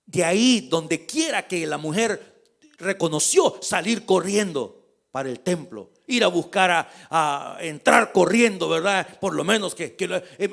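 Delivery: ordinary talk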